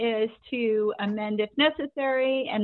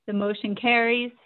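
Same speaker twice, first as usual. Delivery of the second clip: normal talking voice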